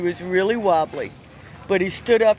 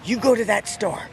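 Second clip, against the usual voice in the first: put-on old Southern man voice; 2 semitones higher than usual. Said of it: "I have to speak like him".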